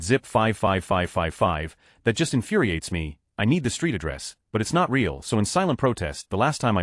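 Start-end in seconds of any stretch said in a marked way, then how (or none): 0.0-1.8 slow. Shown as a demonstration. Reading out the fake zip code.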